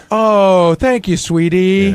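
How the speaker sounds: slow, syrupy mock sweetness; lightly voiced mock tender thank-you; Sal's serious talk voice. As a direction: drag it out like a doting uncle. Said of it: "serious talk voice".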